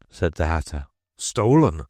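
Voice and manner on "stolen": loud accusing cry; "Stolen!" thrown out loud at the jury; exclaiming. A narrator's reading. King accusing the Hatter before the jury, loud exclamation. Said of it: "the king exclaimed".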